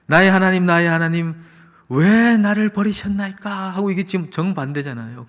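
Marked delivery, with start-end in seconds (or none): 0.0-3.7 high, raised cry of forsakenness; acted outcry to God, slowing on the question. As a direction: imitate Jesus' plea, stretching the 'why'. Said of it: "그 외침이 있어서".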